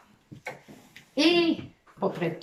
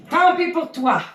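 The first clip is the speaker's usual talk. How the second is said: mock taunt; 6 semitones higher, 5 dB louder than usual. Teacher taunts villain Furiosa.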